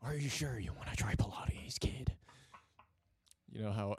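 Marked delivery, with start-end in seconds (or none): 0.0-2.1 whisper. Acted. Teasing whispered question.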